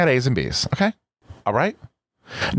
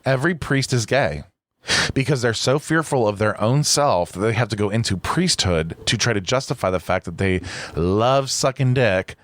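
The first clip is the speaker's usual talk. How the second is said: stoned. Real, not acted. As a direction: talk like the edible just hit. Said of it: "this edible is hitting so".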